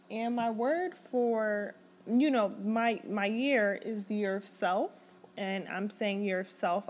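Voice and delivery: lisping slightly around a retainer; words blurred by a retainer in the mouth; wearing a retainer. Real, not acted. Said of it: "I got my retainer in".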